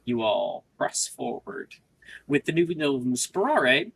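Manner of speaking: measured scene-setting narration; game master narration. Acted. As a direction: set the scene for the players. GM describes the climb.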